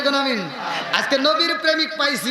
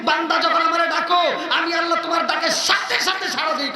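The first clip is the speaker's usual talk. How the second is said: fervent, raised sermon delivery; impassioned preaching; 4 semitones higher than usual. Real, not acted. Preacher proclaiming that Allah never sleeps, fervently. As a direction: press each phrase out to a big crowd.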